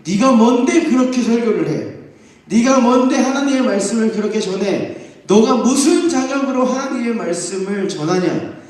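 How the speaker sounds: mock outraged grilling; indignant interrogation. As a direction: demand who he thinks he is. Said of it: "따지는 거예요".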